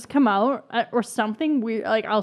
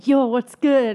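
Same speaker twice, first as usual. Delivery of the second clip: louder, hammed-up mock greeting; imitated boyfriend greeting; 3 semitones higher, 5 dB louder, slower than usual. Predicting to her brother his greeting, exaggerated. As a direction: mimic his hyped phone hello. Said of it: "he's gonna say".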